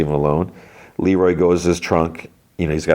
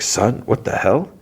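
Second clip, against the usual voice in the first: shocked; 5 semitones higher than usual. Retold or imitated. Father sees bruises, shocked.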